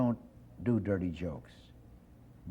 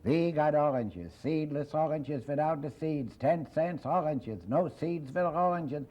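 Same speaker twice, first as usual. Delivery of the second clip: a peddler calling out his oranges, higher and slow; street peddler call; 5 semitones higher, slower than usual. Retold or imitated. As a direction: hawk "We got oranges" like a pushcart seller, drawn out. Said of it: "And he's yelling".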